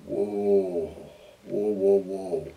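low, softening whoas; hushed awe. Acted. Preacher as the disciples after the storm stops, hushed awe. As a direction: let each "whoa" hang and fade in acted wonder.

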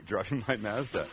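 Mazda said as MAZ-duh; flat A in Mazda, as in "jazz"; Canadian pronunciation. Acted. Cook echoing the crew's joke, Canadian pronunciation of Mazda. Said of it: "as the Canadians would say".

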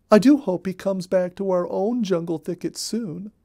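a busy little rabbit spilling all the news; Molly Cottontail. Acted. Molly voiced in read-aloud story.

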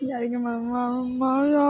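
real sobbing call for mother; helpless, tearful calling; crying. Real, not acted. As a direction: wail for mother through tears. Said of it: "কান্না করো না".

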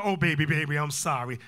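low, soothing apology; apologetic husband. Acted. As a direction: act out a husband giving in to tears. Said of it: "now you wanna".

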